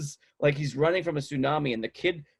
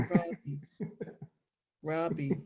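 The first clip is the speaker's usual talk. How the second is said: soft, raised creeper voice; creepy whisper; 5 semitones higher, 8 dB quieter, slower than usual. Retold or imitated. Prankster murmuring right behind a stranger, creepy. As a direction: imitate a creep calling softly from close behind. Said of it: "Just totally creeper".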